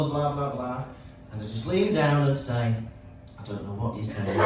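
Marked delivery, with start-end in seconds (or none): 3.4-4.4 put-on low, softened voice to a small child; quiet, low, amused teacher reply; mock-gentle teacher. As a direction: lean down and confide it, deadpan.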